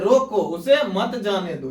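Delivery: "रोको" as its own command, then "उसे मत जाने दो"; break after रोको. Shown as a demonstration. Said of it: "मतलब कह रहा है". ("रोको" अलग, फिर "उसे मत जाने दो" एक साथ)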